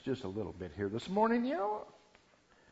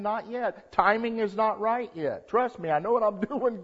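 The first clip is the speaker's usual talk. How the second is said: high, loud preacher's emphasis; emphatic reassurance; 7 semitones higher, 5 dB louder than usual. Acted. God tells the believer to trust him, emphatic. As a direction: lift it up and drive it home. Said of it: "He's simply saying".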